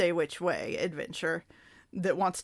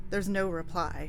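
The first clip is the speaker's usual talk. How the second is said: ordinary delivery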